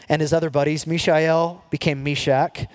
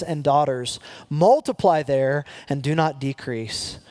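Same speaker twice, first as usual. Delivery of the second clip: slow, weighty reading of the verse; scripture reading. Acted. Preacher reading God's word to the congregation, slow and weighty. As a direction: let each command land slowly.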